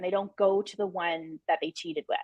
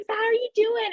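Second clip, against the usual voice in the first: put-on high, sing-song reporter voice talking to a kid; chirpy reporter; 14 semitones higher than usual. Retelling a reporter interviewing a little kid, high chirpy voice. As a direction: ask it like a bubbly TV reporter. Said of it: "she's like".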